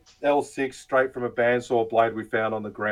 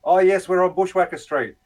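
higher, eager fake agreement; mocking scammer voice; 8 semitones higher, 3 dB louder than usual. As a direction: parrot the scammer's yes-man reply. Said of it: "And they go".

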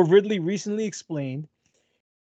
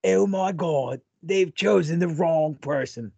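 put-on half British accent; slower than usual. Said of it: "It's getting worse".

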